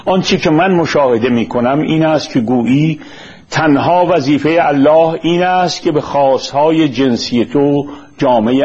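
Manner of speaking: measured, formal reading of a prepared text; formal lecture-script delivery; formal read-aloud. Acted. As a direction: read it out deliberately in careful literary Persian.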